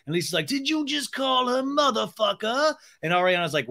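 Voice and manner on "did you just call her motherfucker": high, shocked question; hammed-up appalled Lisa; mock shock. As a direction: gasp it out in disbelief.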